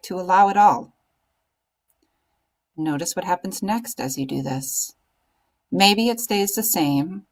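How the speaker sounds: calm meditation guide with long pauses; guided meditation. Acted. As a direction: guide them gently into stillness, phrase by phrase.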